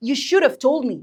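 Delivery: "should have" linked as "shoulduv" in "You should have told me"; American linked pronunciation. Shown as a demonstration. Teacher modelling for learners, linked American "should have". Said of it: "تتعلم برضو إزاي تنطق".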